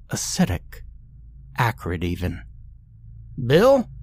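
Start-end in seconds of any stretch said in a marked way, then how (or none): 3.4-3.9 calling out a name, higher and louder; anxious call into the dark barn; crying out. Acted. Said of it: "the hapless farmer cried out once more".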